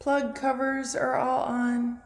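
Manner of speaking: echoing in an empty room; big hall echo. Real, not acted. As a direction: voice bouncing off bare walls. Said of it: "I'm sorry if I'm echoing".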